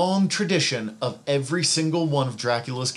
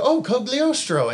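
imitating own reaction; 11 semitones higher, 4 dB louder than usual. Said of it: "I read it and go".

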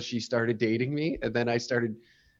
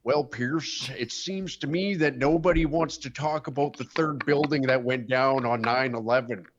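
Jesse Ventura impression. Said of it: "the coveted Jesse Ventura impression".

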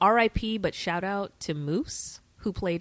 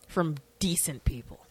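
whisper; 3 semitones lower, 5 dB quieter than usual. Acted. Joking aside about name spellings.

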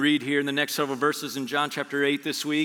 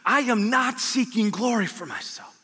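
higher and slow, declaring it; proclaimed Jesus quote; 5 semitones higher than usual. Acted. Preacher voicing Jesus to the congregation, raised and declaring. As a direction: lift it up and proclaim every word.

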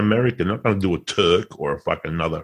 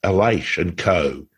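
poem recital. Pretend. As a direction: recite it like an old epic ballad. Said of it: "I wrote it in the style of Lord Babington Macaulay".

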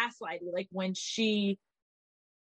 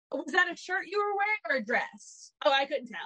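mocking Dorinda's snide jab; 5 semitones higher than usual. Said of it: "she was like".

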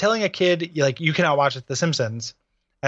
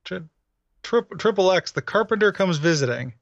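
dumb guy voice; 4 semitones higher than usual. Pretend. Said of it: "giving your dad the dumb guy voice".

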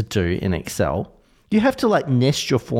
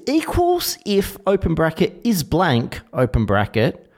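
dictating; 5 semitones higher, slower than usual. Shown as a demonstration. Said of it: "Listen to this".

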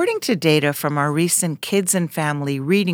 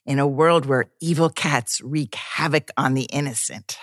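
horror trailer voice. Acted. Trailer-style comic introduction.

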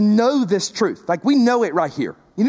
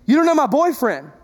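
pleading congregant; 4 semitones higher than usual. Retold or imitated. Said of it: "Or, or even better".

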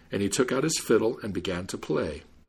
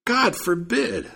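very high, slow, outraged cry; storybook shriek without full volume; mock scream; 12 semitones higher, much slower than usual. A narrator's reading. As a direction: draw out a high-pitched protest. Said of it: "screamed the Jew".

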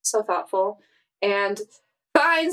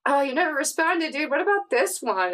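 higher, lightly acted chatter; raised pitch, mock gushing in a recap; excited character quote; 5 semitones higher than usual. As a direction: play someone eagerly pestering a friend. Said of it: "she was just like".

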